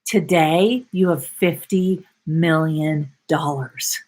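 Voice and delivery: calm certainty. Shown as a demonstration. Coach showing how to speak to your body, calm and certain. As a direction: tell your body it's done, gently. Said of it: "waking up every day and being like".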